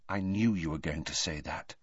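quiet, sad resignation. A narrator's reading. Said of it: "but Hermione said sadly".

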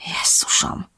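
hushed hiss through gritted teeth. A narrator's reading. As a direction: hiss it softly, barely voiced. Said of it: "sziszegte a fogai közt". (fojtott sziszegés a fogak közt)

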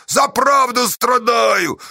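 slow, high anguished wail; martyred cry. A narrator's reading. Pozdey suffering for truth, martyred cry. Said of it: "мученически крикнул он".

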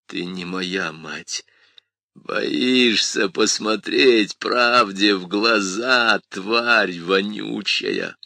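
angry. Acted. Son rejects the demon.

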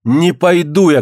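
high, defiant refusal; acted woman's outcry; crying out. A narrator's reading. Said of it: "крикнула Алёна".

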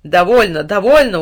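panicked fire yelling at the water; frightened shout. A narrator's reading. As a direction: shout to stop the flood. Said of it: "уже с испугом закричал огонь".

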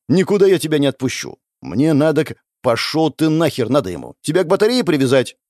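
put-on girl scolds stubborn friend, fast and angry; angry scolding. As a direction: tear into him to keep him home. Girl scolds him, won't let go.

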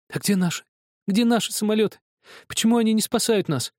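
put-on a frightened child begging for answers; desperate boy. A narrator's reading.

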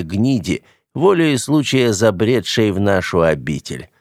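slow, menacing boss speech; deliberate, vengeful ringleader; grim gang boss. Acted. Gang leader addresses his men.

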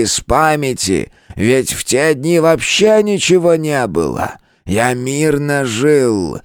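an ancient elder pouring out his memory; old turtle elder. Acted. Old turtle to his friend, impassioned.

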